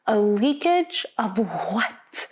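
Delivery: hammed-up slow imitation, every syllable separate; enunciating every syllable. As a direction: draw the engineer's question out syllable by syllable. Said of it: "Literally enunciating every syllable".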